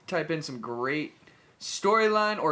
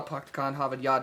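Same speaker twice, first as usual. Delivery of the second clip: mock Boston accent; 2 semitones lower than usual. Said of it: "to get the Boston accent".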